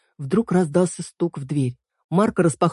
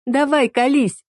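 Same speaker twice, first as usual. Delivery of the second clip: 1 teasing laugh; 10 semitones higher, slower than usual. A narrator's reading. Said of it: "засмеялась Эль".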